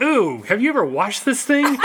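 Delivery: high, camp mock ghost voice. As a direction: squeal it like a nosy ghost. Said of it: "and then he was like".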